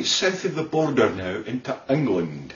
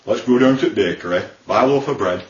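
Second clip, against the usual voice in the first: homely Lancashire phrasing; understated Lancashire accent; Burnley accent; 4 semitones lower than usual. Shown as a demonstration. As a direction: say it like a Burnley local. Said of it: "Burnley, well, they talk like this".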